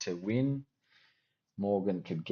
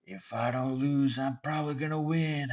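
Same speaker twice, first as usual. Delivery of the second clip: much higher, brash boastful caricature; mock Nate the Train; 6 semitones higher than usual. Mocking Nate the Train bragging about himself, hammed up. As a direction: puff up like a bragging fighter.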